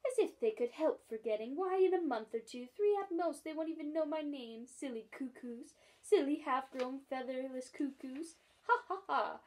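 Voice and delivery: the starling jeers at the cuckoos, then laughs; laughing starling. Acted. Starling mocks the forgetting twins, laughing loudly. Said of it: "another loud peal of laughter".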